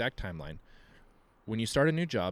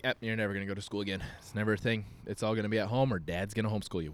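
teasing joke; faster than usual. Retold or imitated. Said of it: "I joked with her".

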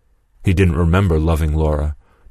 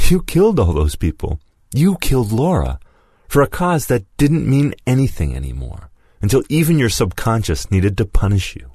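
condemning Lewis; 3 semitones higher than usual. Acted. Lewis tells Mason he killed Laura, accusing. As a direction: press the guilt onto him.

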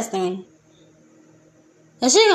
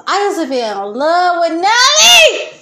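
laughing; 3 semitones higher, 5 dB louder than usual. Real, not acted. Laughing shout about a rapper.

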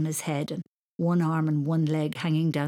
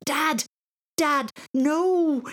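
high, loud panicked scream; 9 semitones higher, 5 dB louder, much slower than usual. A narrator's reading. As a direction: scream to stop him. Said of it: "he screamed".

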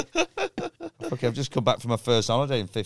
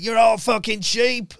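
high, loud, slow mocking rant; mock angry conspiracist; 11 semitones higher, 8 dB louder, slower than usual. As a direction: sneer it like a furious conspiracy theorist. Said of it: "they're still going".

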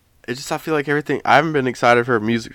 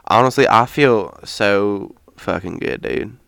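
put-on country accent; 3 dB louder than usual. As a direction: keep up the joke country accent. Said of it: "This is my normal accent".

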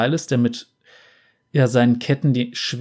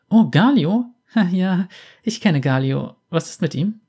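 Lux voice; 5 semitones higher than usual. Acted.

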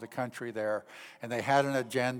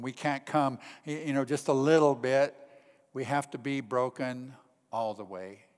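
usual speaking voice

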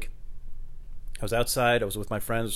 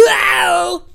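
laughing; 15 dB louder than usual. Real, not acted. Laughing at own prank voice.

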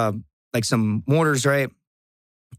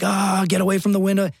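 alarmed shout; 7 semitones higher than usual. Retold or imitated. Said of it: "They're like".

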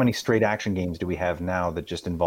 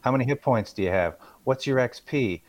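know-it-all; 3 semitones higher than usual. Retold or imitated. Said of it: "And I'm like".

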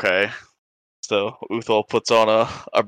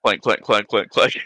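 mock clanking sounds. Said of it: "That's fast walking".

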